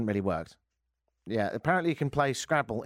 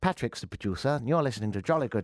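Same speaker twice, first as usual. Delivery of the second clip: lightly put-on English accent; 2 semitones lower than usual. Shown as a demonstration. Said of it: "It's more like this".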